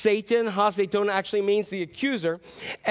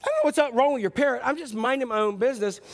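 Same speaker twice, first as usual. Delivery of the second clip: offended customer; 3 semitones higher, faster than usual. Acted. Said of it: "The man is just obviously super offended".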